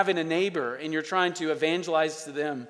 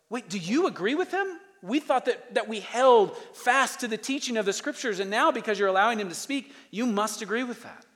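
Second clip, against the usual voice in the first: higher, disbelieving church member asking; incredulous questioning; 6 semitones higher than usual. Pretend. Congregant questioning the church about a guest speaker, incredulous. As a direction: ask it like a stunned onlooker.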